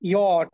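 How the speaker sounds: "ইয়ট" as a drawn-out "yot"; teacher's model "ইয়ট", falling in pitch; German letter J. Shown as a demonstration. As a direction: say "ইয়ট" with y glide, long o, final t. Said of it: "জে এর উচ্চারণ".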